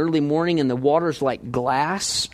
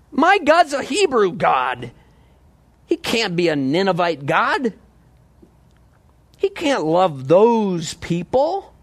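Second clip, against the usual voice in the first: mock-indignant objection, pitch lifted at the start; indignant protest; 3 semitones higher than usual. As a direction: protest as a possessive believer would. Acts out Jonah's possessive protest.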